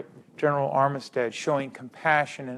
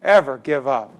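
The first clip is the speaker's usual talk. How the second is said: loud, rising insistence on each ever; impassioned quote building on repeated ever; Jimmy V quote; 5 dB louder than usual. Retold or imitated. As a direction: hammer every ever like a coach's rally cry. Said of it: "I heard, uh, Jimmy V say".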